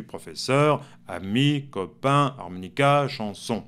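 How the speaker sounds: professeur, ami, copain, harmonica, chanson each leaning on its final syllable; stress on last syllable. Shown as a demonstration. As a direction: land on the endings: -SEUR, -MI, -PAIN, -CA, -SON. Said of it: "la dernière syllabe qu'on accentue". (accent tonique sur la syllabe finale)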